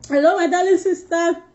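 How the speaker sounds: high, very slow, drawn-out hello; sing-song greeting. Real, not acted. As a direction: stretch the greeting like calling across a room. Greeting a viewer on live.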